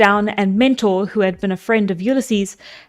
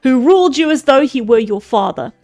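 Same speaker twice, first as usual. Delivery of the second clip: a lightly voiced stern old speaker; old man voice. Mentor rebukes the men of Ithaca, lightly voiced elder. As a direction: scold the assembly like an elder. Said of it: "I'm losing the voice".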